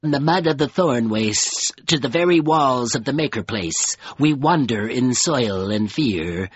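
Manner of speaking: measured, solemn creature voice with pauses; crawler creature, steadied. Acted. Crawler continues its tale.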